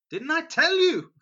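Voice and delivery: loud, high triumphant cry; told-you-so. Acted. King of Israel to Jehoshaphat, loud high told-you-so. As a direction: crow it out, vindicated.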